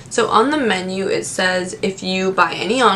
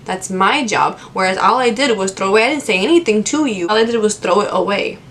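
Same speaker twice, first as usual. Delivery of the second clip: firm retort. Retold or imitated. Retorting to rude customer.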